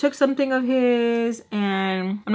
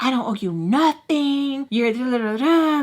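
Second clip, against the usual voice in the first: imitating mom; 4 semitones higher than usual. Mom voiced in story.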